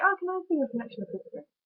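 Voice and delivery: high, fast mock-posh order; mock posh request. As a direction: ask like an overly polite customer, high up. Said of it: "you don't say".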